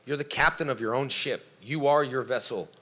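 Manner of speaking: ordinary delivery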